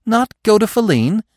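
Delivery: high, indignant question; a spark of indignant disbelief, pitched high; flare of anger. A narrator's reading. Young Bambi privately balking at the order, high and indignant. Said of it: "a single angry spark flared up".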